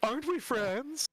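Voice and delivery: creepy sing-song undead voice; Lich voice. Acted. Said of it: "You sound different".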